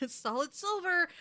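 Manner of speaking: mock threat. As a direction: play a nerd threatening with a tiny knife, slowly. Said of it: "threatening the professor".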